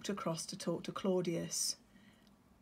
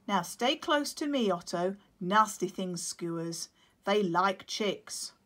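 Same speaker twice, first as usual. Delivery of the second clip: warning penguin; 5 dB louder than usual. Acted. Claudius warning.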